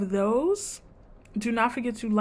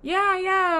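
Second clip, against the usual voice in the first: mock laugh; 10 semitones higher, 3 dB louder, slower than usual. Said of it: "and she's like".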